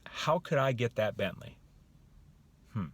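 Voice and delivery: musing question, then a pondering hmm; open wondering. Shown as a demonstration. Coach showing how answers start coming, wondering. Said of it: "It's like thought".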